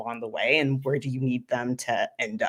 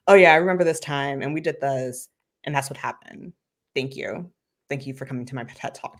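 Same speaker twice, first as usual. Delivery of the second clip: bored recital. Shown as a demonstration. Coach mocking a flat speaker, bored throwaway recital. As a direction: rattle it off and shrug. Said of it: "then it's just be like".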